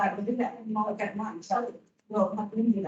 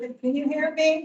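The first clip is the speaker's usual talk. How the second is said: loud, projecting teacher voice carrying to the back; 6 semitones higher, 5 dB louder than usual. Speaker addresses Carol and the group, switching to teacher voice. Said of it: "I'm gonna use my teacher voice".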